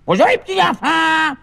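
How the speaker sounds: calling out. Acted. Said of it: "qu'ils sont pas là".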